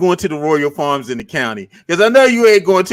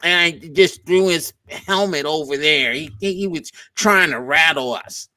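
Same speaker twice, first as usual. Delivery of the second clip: soft, lightly put-on Mahomes voice; a thin imitation of his press voice; mock Mahomes; 3 semitones lower, 5 dB quieter than usual. Teasing a rival quarterback with a soft mock voice. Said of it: "Mahomes talks like this".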